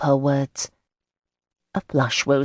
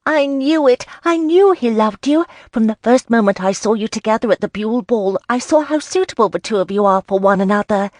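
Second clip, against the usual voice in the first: high, loud, delighted squealing; happy squeal; 7 semitones higher, 6 dB louder than usual. Acted. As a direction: burst out with girlish glee. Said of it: "squealed happily".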